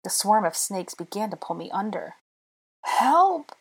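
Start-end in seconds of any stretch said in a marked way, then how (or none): 2.8-3.6 high, drawn-out cry for help; desperate high wail. A narrator's reading. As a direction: wail it out in panic. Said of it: "I wailed".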